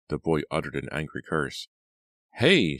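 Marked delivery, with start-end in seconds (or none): 2.3-2.8 a sharp, loud, high Hey; shout. Acted. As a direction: yell in shock as he grabs her. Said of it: "she shouted".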